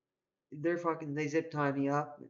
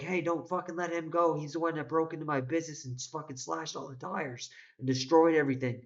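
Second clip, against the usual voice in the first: higher, urgent mock call; imitating an urgent shout, pitch raised; gunman calling out; 4 semitones higher than usual. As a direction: call across the lot to stop him. Gunman calling after him.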